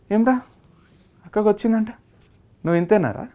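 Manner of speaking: mocking friends' jibe, retold; imitating a sneering friend; sarcastic taunt. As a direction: needle him like teasing friends. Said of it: "అని sarcasm".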